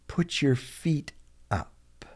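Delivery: "Put your feet", a pause, then a soft "up"; slow model repeat. Shown as a demonstration. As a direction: say "Put your feet up" slowly with "up" set apart. Teacher repeats phrase slowly for learners.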